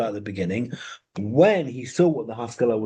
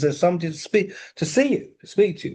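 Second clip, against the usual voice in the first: voicing his wife; 6 semitones higher, faster than usual. Wife announces a visitor.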